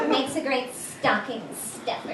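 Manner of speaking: hushed creepy retail pitch; creepy shop clerk. Retold or imitated. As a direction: lean in close like an unsettling salesclerk. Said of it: "say something real creepy like".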